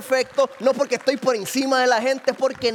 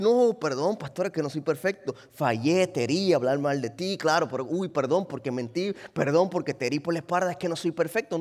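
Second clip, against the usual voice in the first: whiny excuse-maker; 4 semitones lower than usual. Retold or imitated. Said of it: "eso no es una excusa para decir".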